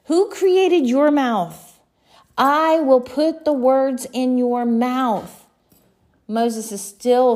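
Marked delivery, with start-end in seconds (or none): 0.1-5.4 louder, slow, a touch irritated; God mildly exasperated with excuses; God, a little irritated at Moses's excuses. Acted. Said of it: "God begins to get a little bit irritated".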